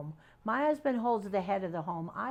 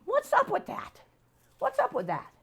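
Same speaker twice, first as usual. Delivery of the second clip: high, baffled exclamation repeated; mock bewilderment, voice jumping up; 3 dB louder than usual. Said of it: "I'm like".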